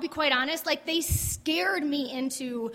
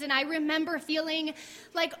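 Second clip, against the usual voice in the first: ordinary talk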